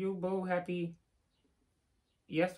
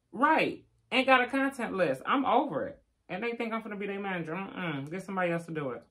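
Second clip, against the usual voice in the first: loud, exasperated mock rant, then a fast mutter; Tehran voice; 2 semitones higher, 4 dB louder than usual. Streamer mimicking Tehran refusing to manage, loud then fast. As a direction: ham up his complaint about the content list. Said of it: "In my Tehran voice".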